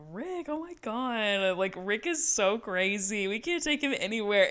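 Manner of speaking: slow, soft gushing voice; a hint of a giggly mom; mock gossipy giggle. Yvette gossiping about Rick, soft slow gushing. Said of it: "She's like".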